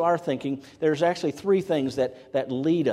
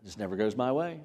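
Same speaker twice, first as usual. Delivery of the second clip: much lower and softer, deflated grumble; a believer grumbling that life never goes his way; frustrated moan; 5 semitones lower, 6 dB quieter than usual. Retold or imitated. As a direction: sag under it all, worn out. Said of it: "we go into frustration mode".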